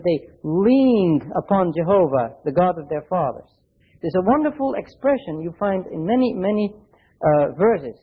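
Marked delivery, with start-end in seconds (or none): 0.0-2.4 "leaned" slowed and lifted, falling at the end; unhurried, "leaned" given the weight; slow stress on leaned. Shown as a demonstration. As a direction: linger on "leaned" as the new rendering. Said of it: "You could translate this word".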